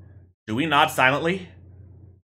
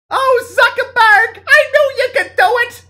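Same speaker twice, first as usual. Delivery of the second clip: very high, loud swooning gasp; swooning woman voice; 9 dB louder than usual. Acted. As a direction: gush at him like a starstruck girlfriend. Saltine speaks in the play.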